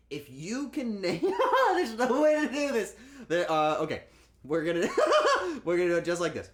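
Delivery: can't get the words out for laughing. Real, not acted. Explaining the tomato game to chat, real laughter.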